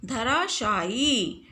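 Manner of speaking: धराशायी said slowly, stretching the final ई; slow spelled-out word. Shown as a demonstration. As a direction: drag out धराशायी, leaning on the long ई at the end. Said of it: "लेकिन शुद्ध शब्द क्या होता है". (धराशायी को धीरे-धीरे, लंबी ई पर ज़ोर देकर)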